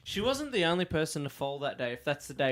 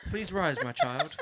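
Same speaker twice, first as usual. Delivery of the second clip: slow regal benevolence; lightly voiced gracious queen; warm regal boom; 3 semitones higher, slower than usual. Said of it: "I'm just like".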